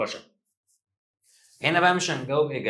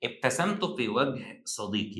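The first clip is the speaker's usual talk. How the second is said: slow example reading; slower than usual. Shown as a demonstration. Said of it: "إذن دي النتيجة".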